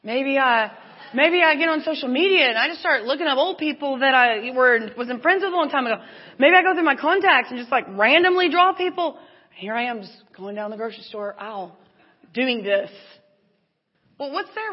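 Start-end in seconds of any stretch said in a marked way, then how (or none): 0.0-9.2 grasp at ideas as the worry climbs; acted-out mild frantic spiral; freaking out. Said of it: "'Cause I start freaking out".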